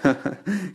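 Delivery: short mocking chuckle; a light sarcastic snicker; ironic laugh. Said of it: "se ríe irónicamente".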